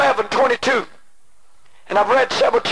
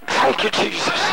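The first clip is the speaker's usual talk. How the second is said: breathless whispered prayer of thanks; 4 semitones lower than usual. Real, not acted. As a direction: whisper it to God in awe. Whispered thanks amid testimony.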